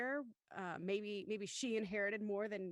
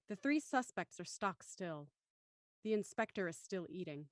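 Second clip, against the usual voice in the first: measured, deliberate script narration; story narration. A narrator's reading. Narrator opening episode five for the audience, measured narration. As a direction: set the scene like a radio-play narrator. Reads title and stage directions.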